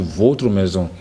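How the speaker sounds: « votre » dit à tort comme vôtre; O fermé fautif. Shown as a demonstration. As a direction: citer la faute, o fermé dans « votre ». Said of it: "on peut pas dire". (o fermé au lieu d'ouvert dans « votre »)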